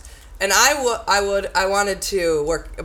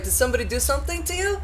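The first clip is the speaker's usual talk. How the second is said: helpful stranger; 7 semitones higher, faster than usual. Retold or imitated. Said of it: "that guy was like".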